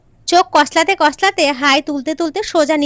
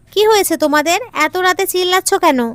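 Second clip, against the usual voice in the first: raised voice; 5 semitones higher than usual. Acted. Son confronts arguing parents.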